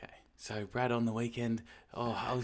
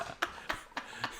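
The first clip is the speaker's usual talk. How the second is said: frat bro laugh; 13 dB quieter than usual. Pretend. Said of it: "fuckboy laugh".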